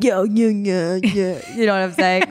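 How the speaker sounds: imitated Philly basketball-guy "yo"; wild Philly accent. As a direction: repeat it in a mock Philly accent. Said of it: "the most wild Philly accent".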